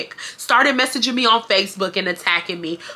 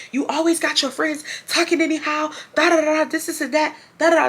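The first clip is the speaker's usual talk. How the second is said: higher mock sister rant, quick and dismissive; lightly voiced bratty little sister going off; 7 semitones higher than usual. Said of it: "she's just going off".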